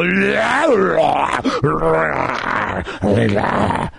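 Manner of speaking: long harsh frustrated growl; exasperated growl. Real, not acted. Host fed up with listing abuses, exasperated growl. Exasperated outburst mid rant.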